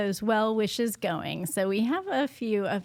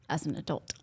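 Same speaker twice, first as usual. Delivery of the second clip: whispering; 3 semitones lower, 5 dB quieter than usual. Real, not acted. Playful aside about his habits.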